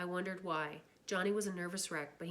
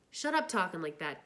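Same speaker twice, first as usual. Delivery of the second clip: fierce; 4 dB louder than usual. Acted. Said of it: "Two-Bit said fiercely".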